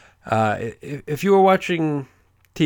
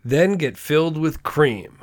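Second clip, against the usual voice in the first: slow reading; much slower than usual. Shown as a demonstration. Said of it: "let me just read you the description".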